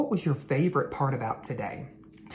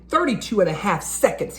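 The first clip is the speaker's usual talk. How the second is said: mock shout; 5 semitones higher, 4 dB louder, faster than usual. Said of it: "he shouted".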